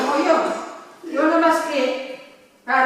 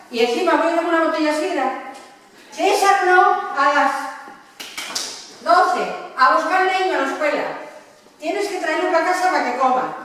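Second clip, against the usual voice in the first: quick, higher-pitched mimicked wife; bossy wife; 4 semitones higher than usual. Wife sending César to fetch the child from school, mock bossy. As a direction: rattle off orders as the imitated wife.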